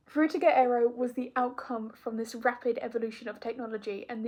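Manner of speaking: muffled behind a mask; talking through a mask; through a face mask. Real, not acted. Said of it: "it's really hard to talk in this mask".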